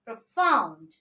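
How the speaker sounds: "profound" with FOUND stressed and falling; stress on second syllable. Shown as a demonstration. Teacher showing what we have to say, "profound" stressed on FOUND. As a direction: say "profound" as pro-FOUND, weight from the F. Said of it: "stress mark over F".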